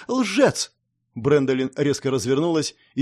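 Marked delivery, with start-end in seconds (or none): 0.1-0.7 angry shout. Acted. Elf accuses knight of lying.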